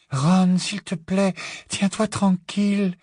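high, slow, breath-held entreaty; Luna's whispered plea. A narrator's reading. Luna cutting ropes as Ron struggles, hushed plea. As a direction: gently beg him to keep still. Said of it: "chuchota Luna".

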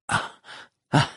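weak, halting gasps between long pauses; faint voice. A narrator's reading. Dors, unwell, answering her adversary in a faint voice. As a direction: let it out feebly, bit by bit. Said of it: "fit Dors d'une voix faible".

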